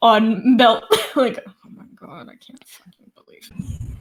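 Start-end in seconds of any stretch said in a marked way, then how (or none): 1.5-3.8 sarcastic, grumbling mutter, whispered under the breath. In a group role-play, a seated character reacts while another gets excited, grumbling. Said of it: "grumbling from where he's sitting".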